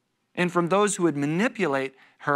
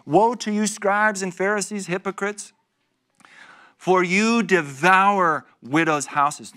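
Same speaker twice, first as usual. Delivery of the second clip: raised, louder proclamation; forceful rebuke; 3 semitones higher, 4 dB louder than usual. Acted. Jesus rebuking scribes and Pharisees, loud and forceful. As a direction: thunder the woe at them.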